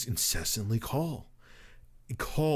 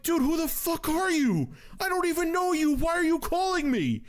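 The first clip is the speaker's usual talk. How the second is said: mock exasperation. Annoyed retold reply to caller.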